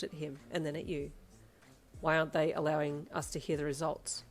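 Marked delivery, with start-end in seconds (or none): 2.0-4.2 lightly voiced suspicious father. Father questioning the doctor, suspicious. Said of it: "your father asked suspiciously".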